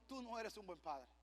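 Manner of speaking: soft, low divine verdict; quiet rebuke. Retold or imitated. God correcting a proud father, quiet low rebuke. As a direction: deliver the verdict low and hushed.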